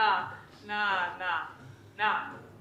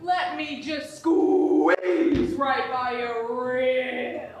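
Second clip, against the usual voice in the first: mock tough boast; 3 semitones higher, 4 dB louder than usual. Mock tough standoff retort.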